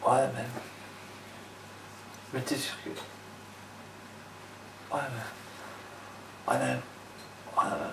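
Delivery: hesitant, trailing, long pauses; timid faltering ouais, mais; unsure guy. Shown as a demonstration. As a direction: mumble like you doubt everything. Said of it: "on sent le gars qui est pas sûr de lui".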